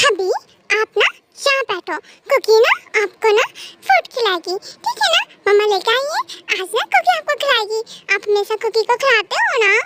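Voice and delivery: lightly voiced childlike coaxing, lilting up on questions; coaxing childlike wife. Cookie offers to feed her husband, lightly voiced childlike coaxing. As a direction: coax like a doting little wife.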